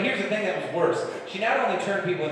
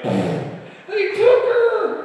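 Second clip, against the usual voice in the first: high, slow, wailing cry of a panicked father; frantic panicked dad; 4 dB louder, much slower than usual. Retold or imitated. Belle's dad bursts into the tavern, high panicked wail. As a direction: shriek it out high and drawn out like a desperate dad.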